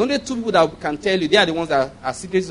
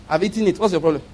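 mocking minister; faster than usual. Mock reply of greedy minister.

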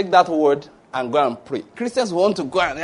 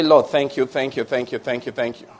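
fading thanks; 2 semitones lower than usual. Shown as a demonstration.

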